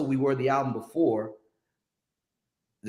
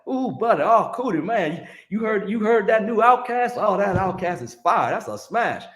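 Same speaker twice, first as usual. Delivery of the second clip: put-on a much higher, louder good-old-boy voice gushing over a new record; Southern cat impression; 8 semitones higher, 4 dB louder than usual. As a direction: hype it up like a thrilled Southern radio guy. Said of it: "He's, he's Southern cat".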